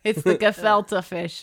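put-on slow, light Jewish old lady accent; a touch of a Jewish grandma accent. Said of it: "it's going a little Jewish".

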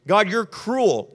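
slow, drawn-out mock accusation; hammed-up aggrieved complaint; acted angry accusation. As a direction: stretch out the charge, mildly heated. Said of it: "You're just angry".

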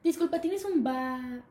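slow question, broken off at "ba-"; cut-off question. Retold or imitated. Girl asks cashier for bathroom, cut off mid-word. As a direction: stop dead halfway into the word "ba-". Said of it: "En ese momento me hice pipí".

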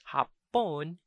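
Hapon with a short first "a"; regular vowel. Shown as a demonstration. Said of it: "but the regular vowel".

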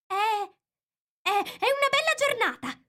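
very high, hesitant stammered opener; timid little voice. A narrator's reading. Nervous Rabbit beside Alice makes small talk, timidly. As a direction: start haltingly in a tiny high voice. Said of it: "una vocina timida".

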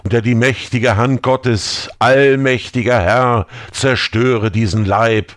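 rising, fervent exorcism prayer; incantatory prayer. Acted. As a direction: pray as if to cast out a demon. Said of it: "Isaaks Worte beschwörend". (beschwörendes Gebet)

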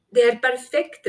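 bright shout of discovery; called out. A narrator's reading. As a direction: call it out with delight. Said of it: "ropte hun".

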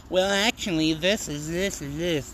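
lightly mock a know-it-all correcting you; the nerdy Well Actually guy, mock pedantic. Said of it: "the nerdy".

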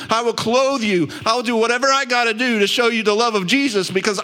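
impassioned pulpit crescendo, voice lifted high; fired-up preaching. Real, not acted. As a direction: preach it at full force with rising passion. Preacher builds to fired-up call.

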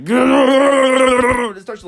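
cracking up mid-sentence, high and loud; can't get the words out for laughing, drawn way out; loud laugh-through words; laughing loudly. Real, not acted. Laughing while telling tank shaking.

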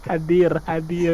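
high, loud quacky duck voice. Acted. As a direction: answer roll call like a cartoon duck. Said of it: "pakai suara bebek kayak tadi".

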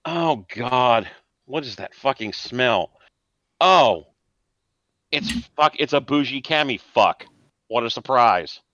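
lightly voiced scornful punk; a hint of a sneering street tough; Genghis sneering. Genghis mocks the rival's smell, lightly sneering. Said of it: "Genghis just shoots him this look and goes".

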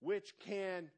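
very slow, deliberate reading of each word. Shown as a demonstration. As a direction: read it out slowly for the church. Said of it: "I'm gonna read this real slow".

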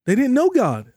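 "They didn't know God" thrown up high, pressing on know; rising emphasis. Shown as a demonstration. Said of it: "I'm gonna say that again".

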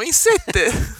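high, slow "diciassette" with a stressed closed e; hammed-up "diciassette", e closed. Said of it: "il sette c'è sempre".

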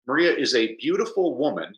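"beautiful" carries the emphasis, "woman" falls away; stress on BEAUTIFUL. Shown as a demonstration. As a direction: lean on the adjective "beautiful". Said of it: "the emphasis is on the adjective".

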